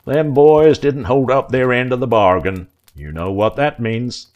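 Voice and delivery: filthy man telling Yindy his fate; lightly voiced menacing hick. A narrator's reading. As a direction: lean in and pronounce sentence.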